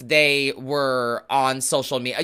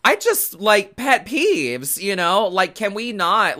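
exasperated outburst; 4 semitones higher than usual. Real, not acted. Ranting about a pet peeve.

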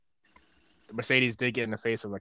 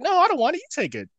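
high mock protest; 9 dB louder, faster than usual. Imitating Shotzi refusing gift.

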